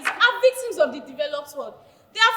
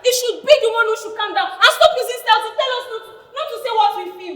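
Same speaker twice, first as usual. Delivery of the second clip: fast rant; 3 semitones higher, 3 dB louder, faster than usual. Acted. Ranting after being told calm.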